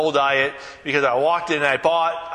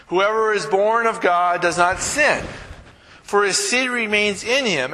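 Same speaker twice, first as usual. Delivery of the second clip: scripture reading; 3 semitones higher than usual. Acted. Pastor reading First John to the congregation, measured scripture reading. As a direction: read the scripture with weight, lifting the opening.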